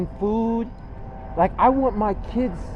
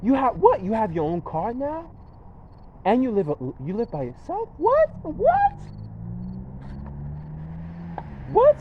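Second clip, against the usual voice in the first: amazed disbelief. Retold or imitated. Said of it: "They'll be like".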